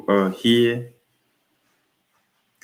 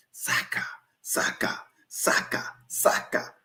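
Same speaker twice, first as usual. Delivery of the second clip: softer, whispered awe; whispering; 7 dB quieter than usual. Real, not acted. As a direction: breathe the name in disbelief. Whispered chant of name.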